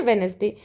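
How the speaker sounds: वेडनेसडे with the first d silent; वेडनेसडे said "wenzday"; say Wednesday. Shown as a demonstration. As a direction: drop the d in वेडनेसडे. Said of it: "क्या बोलते हैं".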